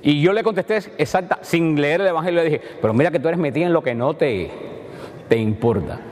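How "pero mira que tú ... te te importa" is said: knowing, friendly tease; teasing a close friend who already knows the answer; playful teasing. Shown as a demonstration. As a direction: rib a close friend with a wink. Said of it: "diálogo entre dos personas que tienen confianza".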